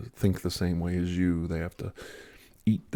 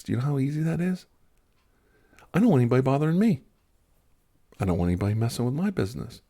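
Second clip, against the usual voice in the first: fast, loud, fired-up rant; heated fast rant; 5 semitones higher, 3 dB louder, faster than usual. Real, not acted. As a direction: rattle it off, exasperated. Heated rant about being left alone.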